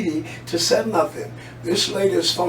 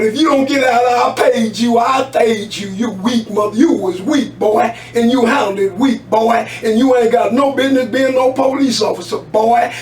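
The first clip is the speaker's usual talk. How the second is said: raised, heated voice berating a cop; retold angry yelling; 3 semitones higher than usual. Caller acts out a man yelling at the officer, heated and raised.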